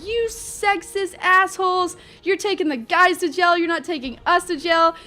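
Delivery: mock outrage, high and drawn out at first; indignant protest. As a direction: imitate a friend telling off the police. Friend protests at police.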